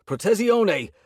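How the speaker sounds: shouted spell. A narrator's reading. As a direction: shout the spell to raise a shield. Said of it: "I shouted".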